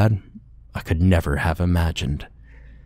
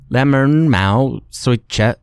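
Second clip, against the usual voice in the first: frightened plea; 6 semitones higher, 4 dB louder, slower than usual. Acted. Captured boy pleading in Vietnamese.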